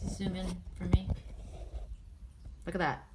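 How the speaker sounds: whispered aside; quick whispered request off to the side; hushed instruction to the helper. Real, not acted. Aside to camera operator.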